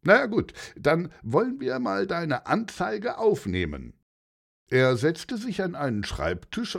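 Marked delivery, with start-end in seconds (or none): 0.0-3.9 louder again. Acted. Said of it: "sagte der Polizist nun wieder lauter".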